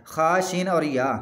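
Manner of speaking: खा, शीन, या named slowly as separate letters; spelled out. Shown as a demonstration. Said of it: "दूसरा है खाशिया".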